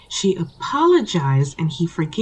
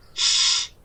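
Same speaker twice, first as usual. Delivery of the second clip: a sharp unvoiced shush. Storyteller hushing the quarrelling couple, sharp shush. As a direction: hush them so the story can go on.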